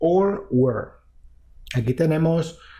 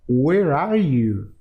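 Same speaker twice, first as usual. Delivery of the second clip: susurro; much slower than usual. Shown as a demonstration. Repite la pregunta al teléfono.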